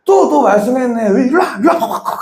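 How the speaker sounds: lightly voiced nagging mom; scolding mother. Mother scolding her scraped-up son. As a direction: nag like a fed-up mother. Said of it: "엄마들이 어떻게 발라줘요?".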